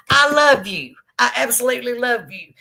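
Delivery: high, excited outpouring of love; gushing affection. Real, not acted. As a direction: gush it loudly, then ease slightly. Thrilled reply to viewer's supportive message.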